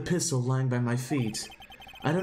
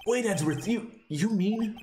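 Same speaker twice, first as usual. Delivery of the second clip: stunned disbelief; 7 semitones higher than usual. Acted. Confession stuns friend.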